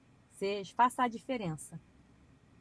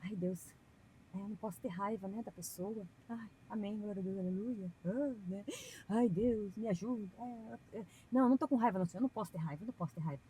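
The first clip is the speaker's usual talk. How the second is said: fake pious prayer. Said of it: "Não adianta eu falar assim".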